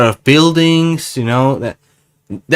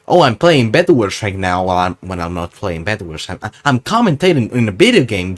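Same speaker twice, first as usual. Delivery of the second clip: gamer commentary voice; 2 semitones lower than usual. Shown as a demonstration. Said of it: "that's the voice, uh, mode I should turn on".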